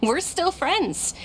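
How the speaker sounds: slow sincere insistence; earnest. Acted. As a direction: reassure her you care. Insisting on friendship.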